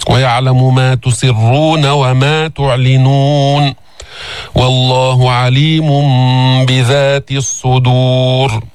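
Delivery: slow melodic tajwid recitation; measured Quranic recitation. Shown as a demonstration. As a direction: chant the verse slowly.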